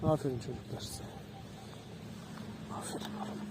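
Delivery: very soft, fading praise. Real, not acted. Owner praising the dogs very softly. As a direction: breathe the praise quietly.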